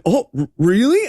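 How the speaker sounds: stammered surprise with a questioning rise; mock astonished question; mildly mocked surprise. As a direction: act taken aback, tripping on "really". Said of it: "He's so surprised".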